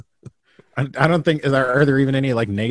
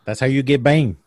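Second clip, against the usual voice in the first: Bane voice; 3 semitones higher, 5 dB louder than usual. Acted. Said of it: "I don't know why that sounded like that to me".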